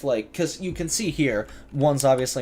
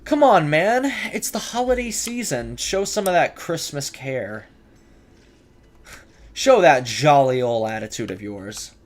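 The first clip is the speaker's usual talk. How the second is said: mock pleading; 3 semitones higher, 4 dB louder than usual. Real, not acted. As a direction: tease the enemy like a pleading friend. Talking to an enemy in game.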